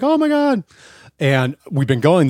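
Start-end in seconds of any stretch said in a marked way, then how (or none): 0.0-0.6 high, loud mock gasp of fear; mock terror. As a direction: squeal it like the ride is too high. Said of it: "until you're like".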